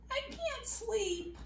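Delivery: soft, high, sleepy plea; a wakeful little spoon whispering it can't sleep; sleepy small voice. Acted. Spoon tells its friend it can't sleep, softly.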